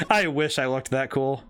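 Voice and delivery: laughing it out on the repeat. Real, not acted. Streamer laughing at his own wish. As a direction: chuckle through the wish.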